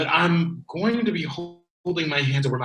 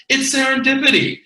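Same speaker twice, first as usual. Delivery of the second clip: much higher and louder, bursting with excitement; ecstatic shout; 11 semitones higher, 9 dB louder, faster than usual. Acted. Bryce crowing to Alaric about the mysterious VCR, ecstatic shout. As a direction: shout it out like a revelation.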